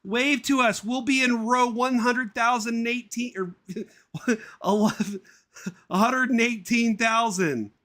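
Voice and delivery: very high cartoon mum breaking into a laugh; high mum voice, cracking up. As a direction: wave goodbye squeakily and crack up midway. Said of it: "Janet says as Barry leaves".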